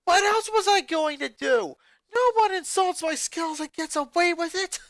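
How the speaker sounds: high, loud defiant jock voice; Lin countering angrily. A narrator's reading. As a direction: fire it back, nobody insults you. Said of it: "Lin countered".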